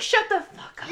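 high-pitched grandma telling off her son; foul-mouthed grandma. Retold or imitated. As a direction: cut him off in a high grandma voice. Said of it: "she talks to my Uncle Ted like absolute shit".

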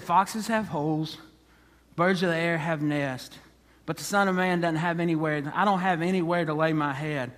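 measured, sober statement with pauses; understated seriousness. Acted. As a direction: soberly caution an eager follower. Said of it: "gets a little bit more serious".

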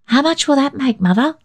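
put-on high, eager child voice; a small boy chattering to grandpa; bright questioning child; little boy Billy. Billy asks his mother.

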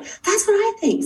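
very high, drawn-out squeal of agreement; retold eager agreement. Mother agreeing with the doctor about labs, eager. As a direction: pitch leaps up, slow and emphatic.

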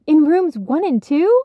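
Penny hearing the news, gasping; gasped. Acted. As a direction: gasp it out in surprise. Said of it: "Penny gasped".

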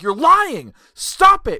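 high, loud mock-furious accusation; exasperated shouted demand; in his face. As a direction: yell it like a maddened wrestler. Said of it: "he's getting in his face".

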